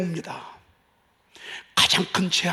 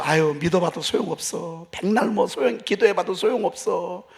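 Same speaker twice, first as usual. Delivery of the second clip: doubter's complaint. Retold or imitated. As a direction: mildly mimic a despairing unbeliever. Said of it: "이런 소리 되게 많이 들었죠".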